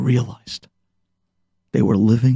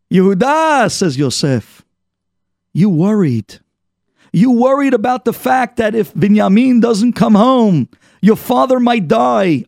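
Yosef confronting; 6 semitones higher than usual. Retold or imitated. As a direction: confront your brother Yehuda. Yosef confronts his brothers.

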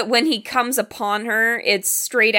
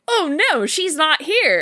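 mock surprise; 5 semitones higher than usual. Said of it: "he's like".

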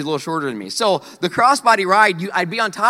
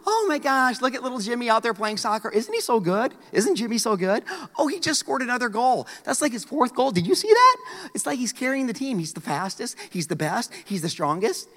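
bragging soccer mom; 4 semitones higher, 4 dB quieter than usual. Retold or imitated. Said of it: "the soccer mom who".

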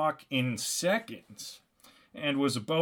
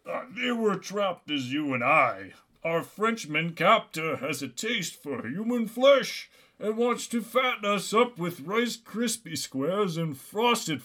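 captive Santa's warning; 5 semitones higher than usual. Acted. Voicing captive Santa's dire warning.

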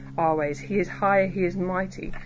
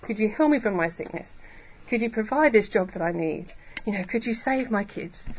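humble plea. Acted. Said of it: "recognizing this is hard".

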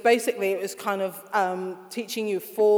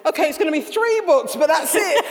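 amused resignation; 7 semitones higher, 6 dB louder than usual. Real, not acted. Laughing at series growing.

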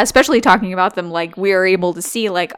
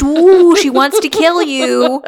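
frightened brain; 6 semitones higher, 4 dB louder, slower than usual. Retold or imitated. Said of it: "your brain says".

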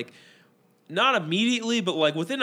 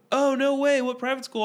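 high-pitched, eager surprise; retold surprise; 9 semitones higher than usual. Customer learning he went to private school, surprised. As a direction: imitate someone delighted by a coincidence.

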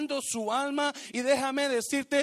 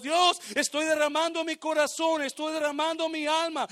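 fervent prayer; 7 semitones higher, 4 dB louder than usual. Acted. Worshipper crying to God.

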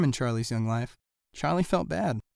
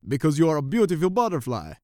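louder eager monkey voice; lightly voiced flattery; monkeys answering; 3 semitones higher, 5 dB louder than usual. A narrator's reading. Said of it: "they answered".

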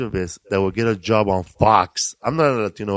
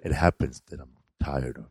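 Samuel Jackson recital; 6 semitones lower, 8 dB quieter than usual. Retold or imitated. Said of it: "Samuel Jackson. He does a".

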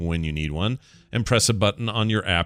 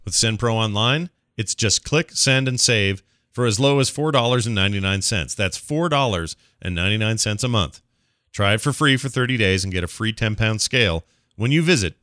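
upbeat sponsor read, brisk and bright; 3 semitones higher than usual. Acted. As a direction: sell it like a radio spot.

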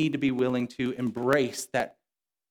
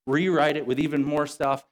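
higher, overly consoling pretend God voice; mock sympathetic God; 3 semitones higher than usual. God as the preacher imagines him comforting a prophet, mock apologetic. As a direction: coddle him like a buddy who's sorry. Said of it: "He doesn't say".

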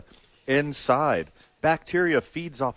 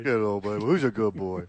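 squeaky praising a dog; 4 semitones lower than usual. Real, not acted.

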